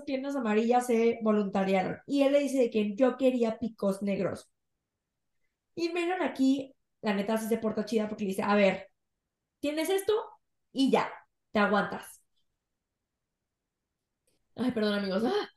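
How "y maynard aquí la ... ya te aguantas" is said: out of breath, pushing words out; running short of air mid-sentence; gasping for air. Real, not acted. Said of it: "no puedo respirar. Se me va el aire".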